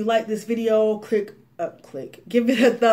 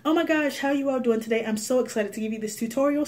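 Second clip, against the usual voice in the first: gushing YouTuber; 4 semitones higher, faster than usual. Retold or imitated.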